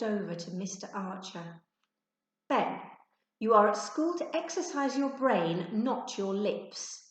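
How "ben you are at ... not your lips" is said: stern teacher. Acted. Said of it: "said Mister Archer".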